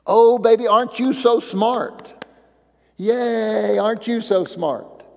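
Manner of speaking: lightly voiced doting grandparent; cheering grandparent. Grandparent cheering a toddler, mild gushing praise. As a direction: gush a little, as if praising a baby. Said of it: "the only reason we cheer".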